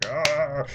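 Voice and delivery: sudden pretend yell of fright; mock scare cry. Hands appear behind her head.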